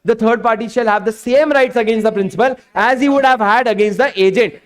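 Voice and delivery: reading the statute slowly word by word; slow dictation. Shown as a demonstration. Teacher dictating the law to his class in a slow read. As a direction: dictate it so students can write.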